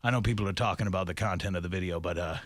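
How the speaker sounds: commenter voice. Retold or imitated. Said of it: "they'd be like".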